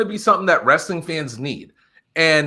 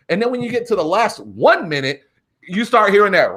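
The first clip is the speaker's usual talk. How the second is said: normal talking voice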